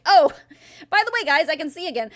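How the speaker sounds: lightly voiced nonchalant dog; casual dog voice. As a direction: shrug it off like the dog. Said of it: "be like".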